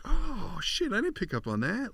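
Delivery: high, drawn "oh" of realization; retold realization. Parent hearing the plot clues from their twenty-one-year-old, retold surprise. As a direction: act out suddenly catching what you missed.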